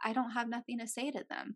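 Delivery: acted calm, casual, soft, chill everyday tone. Retelling how Casey answered the 911 call: imitating Casey's chill voice. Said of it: "just in a normal, chill voice".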